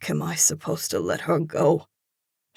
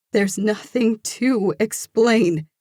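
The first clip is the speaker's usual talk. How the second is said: higher, louder hurt woman; upset woman's voice; 7 semitones higher, 6 dB louder than usual. A narrator's reading. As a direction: push him away, voice raised in hurt. Frightened woman rejects lover.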